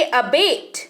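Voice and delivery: अबेट as "uh-BAYT"; pronunciation demo. Shown as a demonstration. Teacher telling learners how to read it, pronunciation demo of अबेट. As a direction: model अबेट with a short opening "uh". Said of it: "इसको पढ़ेंगे".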